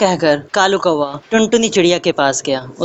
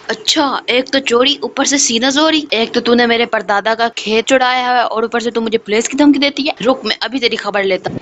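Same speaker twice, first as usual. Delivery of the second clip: high-pitched furious crow shouting threats; angry crow; 5 semitones higher than usual. Acted. Crow threatening the sparrow over the field, high angry voice. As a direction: snap at her, outraged and menacing.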